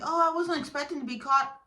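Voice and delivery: high, loud mimicry; mock-innocent high-pitched excuse; mocking the caught cheater.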